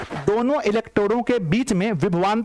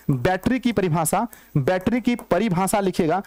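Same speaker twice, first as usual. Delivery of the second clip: slow dictation; slower than usual. Shown as a demonstration. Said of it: "लिखिएगा बच्चों battery की परिभाषा".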